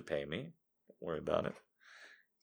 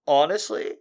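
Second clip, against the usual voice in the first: bright, higher, louder honestly; giddy; 6 semitones higher, 5 dB louder than usual. Real, not acted. To viewers, gleefully showing off his good mood. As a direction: lift it with real glee. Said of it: "Just listen to my voice".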